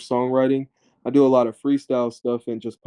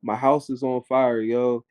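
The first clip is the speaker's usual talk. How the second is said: mock emergency call. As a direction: lightly act out a call to the operator.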